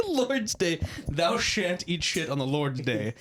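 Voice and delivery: slow, mock biblical proclamation; mock preacher. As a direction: intone it like scripture, tongue in cheek.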